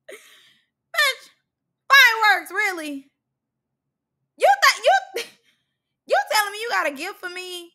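high, loud, comic outrage; indignant outburst. Acted. Reactor confronting Biggie over the gift, loud mock indignation. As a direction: burst out in high-pitched disbelief.

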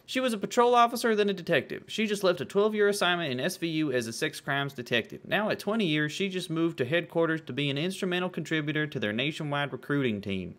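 southern letter-reading voice, high at first; bad southern accent. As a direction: read it in a mock Southern accent. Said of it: "My southern accent is just, uh, fucking Dale Gribble".

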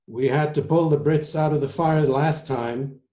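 lightly voiced New York surgeon; disgruntled surgeon. Surgeon objects to helping Britain, lightly acted complaint.

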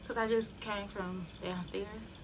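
winded, breathy and fading; out of breath. Real, not acted. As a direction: talk while catching your breath. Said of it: "Yeah, I'm out of breath".

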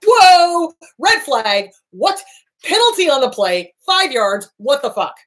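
high, loud mock penalty call; mock referee throwing a flag; incredulous referee call. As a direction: call the foul like a ref, half joking. Healthy person calling out abuse.

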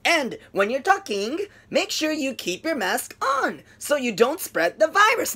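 slow, stiff, word-by-word delivery; choppy robotic English. Retold or imitated. Teacher imitating her choppy English. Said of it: "ロボットのような感じ".

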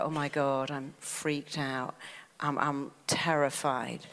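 mild mock terror before a speech; mock nervous self-talk. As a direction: act out a jittery speaker's inner voice, hushed. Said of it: "And the words are".

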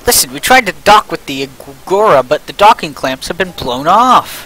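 urgent crew member calling over the radio; lightly acted radio call; voiced game character.

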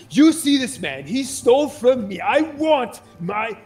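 high, loud complaining plaintiff; angry accuser. Acted. A plaintiff loudly accusing a thief before the judges. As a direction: make him sound wronged and upset. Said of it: "you hear somebody go".

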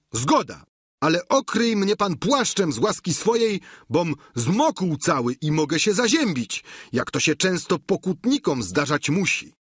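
high-pitched, eager servant voice; Sancho. A narrator's reading. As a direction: play the squire pitched well above the narration. (wysoki głos giermka)

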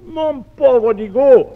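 loud, high and slow cry of alarm. Acted. Companion cries out to the apprentice holding the hot iron, loud and alarmed. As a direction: call out in fright for the boy. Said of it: "Le premier compagnon lui crie".

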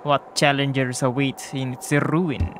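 lightly voiced brooding warrior; a hint of a challenger musing; Tiso's voice. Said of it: "that's the voice I got from him".

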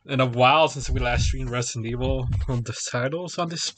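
chewing gum. Real, not acted. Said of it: "Excuse me for the gum I'm chewing".

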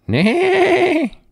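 high, loud whinnying neigh; horse neighing. A narrator's reading. Horse calling the farmer to get up, neighing. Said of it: "When the horse went".

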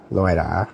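"Loera" with a tapped Spanish r; Hispanic pronunciation. Shown as a demonstration. Vlogger showing how Hispanic people say his surname, "Loera" in Spanish pronunciation. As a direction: say "Loera" the Spanish way, r flicked by the tongue. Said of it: "if you're Hispanic, you'd probably pronounce it".

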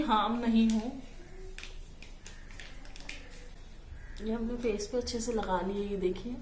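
muffled by hands on face; talking while rubbing face; hands over mouth. Real, not acted. Seen 0: Rubs cream on cheeks; hands briefly cover mouth at 2.7, 6.4.

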